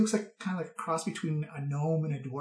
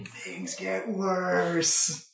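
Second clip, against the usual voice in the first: ominous warning; much slower than usual. Real, not acted. Ominous game master warning.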